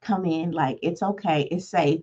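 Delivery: soft, soothing dad voice, lightly voiced; a quiet reassuring father; calm dad. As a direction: hush her gently like a calm father. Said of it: "the dad came in and was like".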